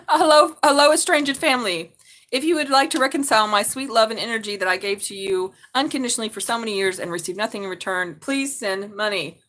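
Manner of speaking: mock-sweet hello to estranged family; sarcastic greeting, sweet on top, sour underneath; faux-sweet note asking family for money; sarcastic message to family. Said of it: "Sometimes I'll do that".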